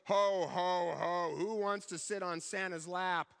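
mock booming Santa shout, slow at the end; hammed-up jolly Santa calling out to the class. Santa calling to scared kindergarten kids, mock booming. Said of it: "started shouting in his booming voice".

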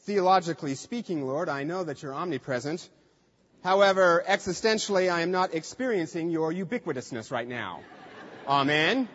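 lightly mocking stiff theological prayer; a hint of a pompous scholar praying, with a laugh; overly academic prayer. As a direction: poke fun at a stuffy intellectual prayer. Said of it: "Notice David doesn't say".

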